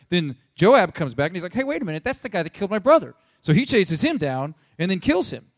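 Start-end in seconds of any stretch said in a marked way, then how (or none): 1.5-3.1 high-pitched mock indignation; indignant realization. Joab spotting his brother's killer, mock indignant. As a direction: play sudden outraged recognition, quickening.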